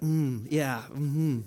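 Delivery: low, softly savored hums; savoring approval. Retold or imitated. Pastor recalls reading the verse, savoring it. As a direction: hum agreement as if tasting something good. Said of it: "I was like".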